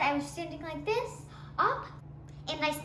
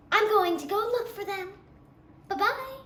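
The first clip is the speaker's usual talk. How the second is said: lightly raised sweet princess voice; fairy tale princess; 2 semitones higher than usual. Acted. Girl showing classmates her fairy tale princess. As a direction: play a gracious, cheery storybook princess. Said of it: "I spoke in a high voice".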